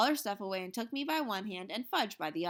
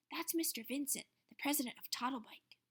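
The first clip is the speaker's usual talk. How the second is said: whispering; 4 semitones higher, 7 dB quieter than usual. A narrator's reading. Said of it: "Janet whispered to me".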